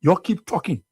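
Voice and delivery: put-on low, quiet disappointed old man; old man's low lament. Old supporter telling host of disappointment, low and quiet. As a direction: sigh it out low like a let-down elder. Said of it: "That old man".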